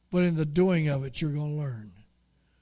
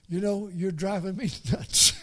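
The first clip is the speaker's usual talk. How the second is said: laughing; 2 semitones higher than usual. Real, not acted.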